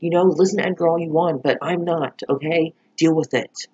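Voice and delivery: annoyed. Retold or imitated. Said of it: "even Betty was, like, getting annoyed".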